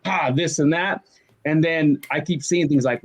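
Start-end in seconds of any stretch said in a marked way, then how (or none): 0.0-1.0 slow, scoffing fault-finder; mock critic. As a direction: play a critic pouncing on each flaw. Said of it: "my critic glasses on".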